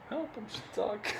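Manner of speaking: high, breathless mock cry for help; fluttering cries for help. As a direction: squeak out a fake plea for help. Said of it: "What I have in".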